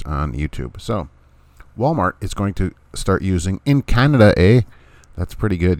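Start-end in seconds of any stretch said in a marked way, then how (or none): 3.6-4.6 put-on a light jokey Canadian accent with a big "eh"; mock Canadian accent. Host joking to listeners about Canada, in a hammed-up Canadian accent. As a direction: tack on a playful Canadian "eh?". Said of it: "You can't hardly tell I'm not Canadian, eh?".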